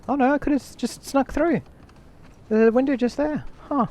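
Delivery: dismayed realization. Real, not acted. Realizing missed sneaking route.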